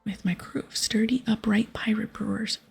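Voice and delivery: lightly voiced proud pirate captain; boastful pirate. Captain introducing himself to the hero, hammed-up pirate. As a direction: announce yourself grandly.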